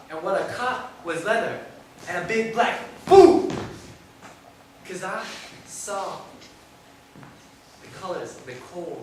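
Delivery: rhythmic recital with shifting pitch and volume; spoken-word poem. Acted. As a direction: perform it as a story in verse.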